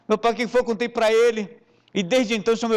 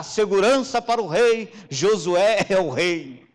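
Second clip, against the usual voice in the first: chickens shouting; 3 dB louder, slower than usual. Pretend. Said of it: "começaram a gritar".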